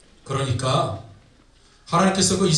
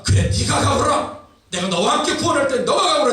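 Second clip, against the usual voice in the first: acted, higher-pitched firm command; God; 4 semitones higher than usual. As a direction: send the protester off decisively. Preacher voices God ordering Gideon to go. (단호하게 가라고 명하는 연기)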